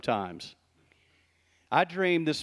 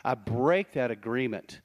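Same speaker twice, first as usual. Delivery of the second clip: solemn declaration; 3 semitones lower than usual. Shown as a demonstration. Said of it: "This is where we say".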